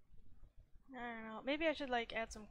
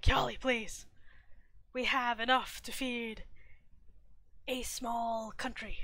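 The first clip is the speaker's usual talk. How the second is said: loud, emphatic pleading; acted exasperation; 7 dB louder, slower than usual. Companion reassuring an anxious host, loud exasperated pleading. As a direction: plead loudly, then slow right down for emphasis. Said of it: "going like".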